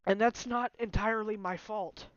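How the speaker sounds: upset, loud. Real, not acted. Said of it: "hardest not to get upset".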